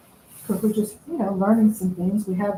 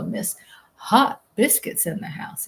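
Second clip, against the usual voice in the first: announcer-style shoutout. Retold or imitated. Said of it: "You go".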